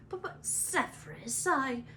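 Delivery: nervous stammer; stammer, flustered and scared; stuttering Quirrell. Acted.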